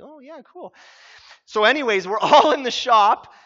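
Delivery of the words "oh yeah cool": fake enthusiasm. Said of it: "and I'm like".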